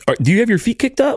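high, airy mock sultry voice; sultry lounge voice. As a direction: put on a lazy seductive voice. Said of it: "Just listen to our sultry".

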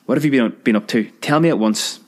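fast, high, stern demand; high impatient scolding; sharp demand. Acted. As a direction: scold the child into answering. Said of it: "snapped the ancient one".

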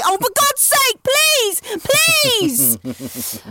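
high, exasperated begging; exasperated plea. Retold or imitated. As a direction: groan it out in despair. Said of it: "decide which one is gonna say".

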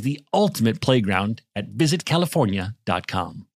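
smooth, scripted sponsor read; polished podcast commercial. Acted. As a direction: sell it with measured, deliberate phrasing. Reads an advertisement.

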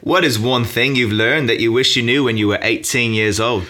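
a light Australian lilt on the whole question; mock Australian accent. Quizzing his guest in a playful Australian accent. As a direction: ask it like a laid-back Aussie. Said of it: "in my best Australian accent".

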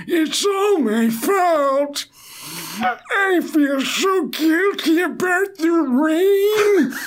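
high, slow, wailing mock sob; over-the-top tearful lament; hammed-up crying. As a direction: blubber like a melodramatic old man. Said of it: "What was I saying to him".

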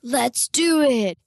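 high, drawn-out rallying cry; slow, emphatic and excited; eager agreement. A narrator's reading. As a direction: jump on board with gusto. Friends eagerly agree to plan.

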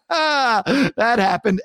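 drawn out slowly, sheepish; slow embarrassed admission. Real, not acted. Host confessing a college makeout, slow and sheepish. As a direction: own it slowly.

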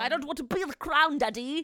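very loud, high, hammed-up protest; overacted filial outburst; mock-dramatic son. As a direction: play the prince wailing back at his father. Acting prince's defiant retort.

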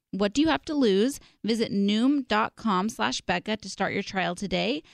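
slow, upbeat sponsor ad read. Acted. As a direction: sell it like a radio spot.

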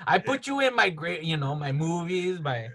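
playful mock Cholo accent; George Lucas. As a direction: boast in a put-on Cholo accent. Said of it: "that's the way Lucas talks".

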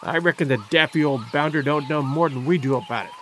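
low rough sailor's growl. A narrator's reading. Sailor sneering at the professor, low growl. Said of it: "growled the rat-faced sailor".

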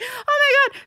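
high-pitched "oh my God"; retold dawning horror. Hosts learn their colleague is Scottish, mock mortified. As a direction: re-enact the mortified realisation.

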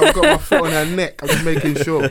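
high, loud laughing auntie voice; pushy matchmaker auntie. Acted. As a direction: boss them like a nosy aunt. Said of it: "In the finest auntie voice".

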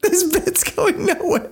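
very high squawk, drawn out; slow, high-pitched Charlie Day-style screech; the speaker as Charlie Day. Acted. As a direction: wail it in a strained cartoon voice. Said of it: "you sound like Charlie Day".

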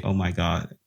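mildly mocking, low unimpressed echo; mock an insincere friend; fake concern. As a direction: imitate a fake, uncaring reaction. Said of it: "You sound so, like, fake".

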